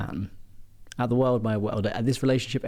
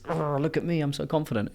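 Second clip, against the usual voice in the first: high-pitched mocking boast; mock braggadocious; 6 semitones higher than usual. Mocking a show-off who parades confidence, braggadocious. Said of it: "just this braggadocious".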